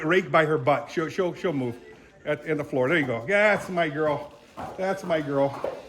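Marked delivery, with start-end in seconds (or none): 2.9-5.8 slow, soft praise for a skittish mare; soothing the horse. Real, not acted. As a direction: coo it gently to calm her down.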